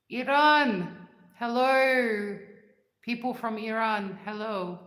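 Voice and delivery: loud, high call to viewers; cheerful loud shout-out to viewers; excited greeting. Real, not acted. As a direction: shout a happy hello. Greeting live stream viewers.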